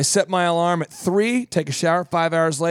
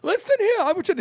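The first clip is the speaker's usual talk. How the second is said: put-on much higher, cranky old man; angry senile resident; faster than usual. Old man arguing back at Marge, much higher. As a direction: bark it like a grumpy old man. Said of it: "And he's like".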